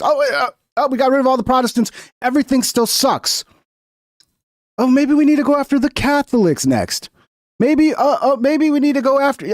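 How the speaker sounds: high, dopey mock voice; mock dim follower. Mocking the followers' confusion.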